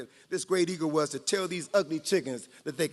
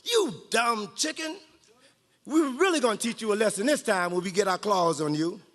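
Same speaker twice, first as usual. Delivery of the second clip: rooster shouting. Acted. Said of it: "one of the roosters shouted".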